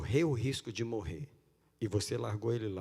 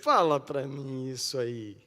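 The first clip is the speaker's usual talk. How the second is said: mock pity; 4 dB louder than usual. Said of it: "Deus veio e sentou do seu lado e falou".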